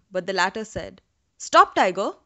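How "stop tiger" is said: urgent stop. A narrator's reading. Brahmin halts tiger.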